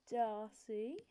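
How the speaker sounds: "Darcy" said oddly, drawn out with a rise; odd pronunciation. Real, not acted. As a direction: stretch "Darcy" into a strange rising lilt. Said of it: "I said that so weirdly".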